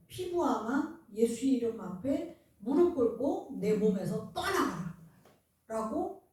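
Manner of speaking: slow, firm rebuke of the sickness; commanding prayer. Shown as a demonstration. Pastor demonstrating prayer against cancer, slow and commanding. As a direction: command the cancer to leave, slowly. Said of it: "말하고".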